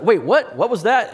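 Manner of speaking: sudden high startled "wait, what?". Pretend. Preacher voicing a listener who suddenly perks up, surprised. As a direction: jolt up in pitch, suddenly curious.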